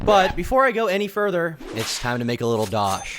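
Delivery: upbeat pitch with bouncing high emphasis; energetic promo read; sponsor ad read. Acted. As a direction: sell it like a lively YouTube sponsor plug. Reads a sponsor ad.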